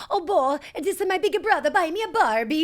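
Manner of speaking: put-on high, sweet kid-sister voice; girly little sister voice. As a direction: wheedle like a bratty little sister. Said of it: "she'd be like".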